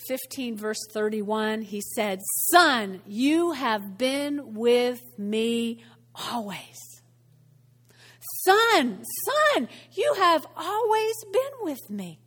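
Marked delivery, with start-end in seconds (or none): 2.5-7.0 slow, drawn-out fatherly reassurance; loving tone. Acted. Father reassures the older son in a loving tone. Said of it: "in the same loving tone". 8.4-12.2 mildly pleading fatherly reassurance, pitched higher; loving tone. Acted. Father appeals to his older son, gently loving. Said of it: "in the same loving tone".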